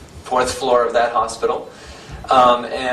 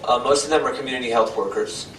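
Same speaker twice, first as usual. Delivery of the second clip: repeated louder so the hall can hear; projecting more after a request; louder, to reach the back. Real, not acted. Speaker asked to say it louder, repeats it louder. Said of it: "Oh, say it louder?".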